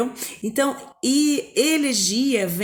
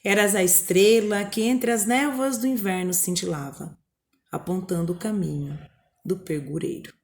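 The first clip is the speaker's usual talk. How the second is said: poem reading. Acted. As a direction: read it like a wistful poem. Reads a poem aloud.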